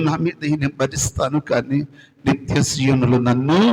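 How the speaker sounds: penitent prayer that builds and sinks to a hush; pleading prayer. Acted. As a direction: beg the Lord for mercy, fading out at the end.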